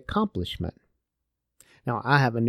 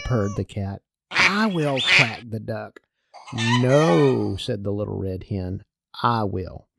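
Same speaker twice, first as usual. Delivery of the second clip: put-on reading a children's folk tale aloud, with little voices for the animals; story narration. Preacher reading the little red hen tale to his congregation, storytelling voice. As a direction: tell it like a bedtime story, lively and clear.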